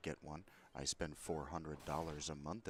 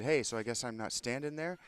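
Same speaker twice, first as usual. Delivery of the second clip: loud, raised indignant challenge; indignant call-out; 7 semitones higher, 10 dB louder than usual. Retold or imitated. Customer to the man who cut in line, indignant call-out.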